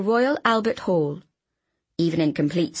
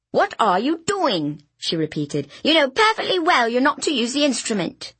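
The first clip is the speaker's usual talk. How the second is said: muffled; 6 semitones higher than usual. A narrator's reading. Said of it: "muffled voice".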